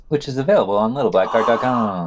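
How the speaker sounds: hushed conspiratorial whisper; breathy whispered aside. Pretend. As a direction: slip the plug in like a secret. Mock secret plug whispered in.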